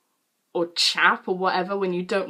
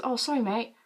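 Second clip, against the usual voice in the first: quick, softer passing apology; offhand apology; 3 semitones higher, 5 dB quieter than usual. Retold or imitated. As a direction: toss off sorry mate in passing. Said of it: "Like, not like that".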